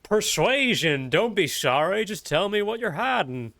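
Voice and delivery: drifting into a Goofy impression; slipping into Goofy. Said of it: "slowly slipping into Goofy".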